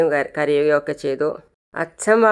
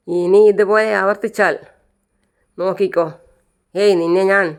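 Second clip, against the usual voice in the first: raised, threatening warning; angry threat; 3 semitones higher, 3 dB louder than usual. Retold or imitated. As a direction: warn him off angrily, a bit louder. Quarrel, threatening the man.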